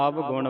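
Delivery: ਅਵਗੁਣ as "av-gun", consonant v sounded; ਅਵਗੁਣ with v, not an au vowel. Shown as a demonstration. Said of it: "ਵਾਵੇ ਦੇ ਨਾਲ ਉਚਾਰਨ ਕਰਨਾ ਹੈ".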